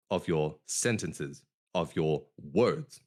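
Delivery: "sentences" falling, "words" said slowly; slow and settle the pitch down at the ends; slow downward inflection. Shown as a demonstration. Coach showing a slow, firm falling finish on "of your sentences". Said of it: "the way I'm doing right now".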